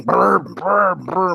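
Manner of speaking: lip-buzzed throttle revs; short bursts of mimicked revving; engine revving imitation. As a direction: rev it like a truck engine. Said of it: "doing the whole accelerator thing".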